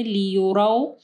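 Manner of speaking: लियुरौ with a gliding last syllable; madd leen. Shown as a demonstration. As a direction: glide the end of लियुरौ from a into w. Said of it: "मद लीन आ रही है".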